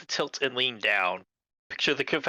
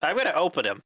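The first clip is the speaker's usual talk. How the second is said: worker on the phone; 5 semitones higher, slower than usual. Acted.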